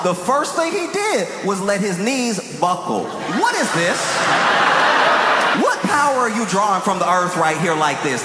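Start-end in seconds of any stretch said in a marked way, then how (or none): 3.0-8.2 incredulous shout. Retold or imitated. Mocking the weird power up.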